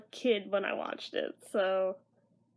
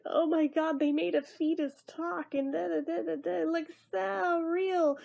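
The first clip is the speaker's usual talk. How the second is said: mock awe at a higher pitch; mind-blown; 4 semitones higher than usual. Reviewer mimicking their younger self's amazement, mind-blown. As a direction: gush like an amazed kid, lightly mocking. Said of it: "I thought the C G I graphics in this were so mind-blowing".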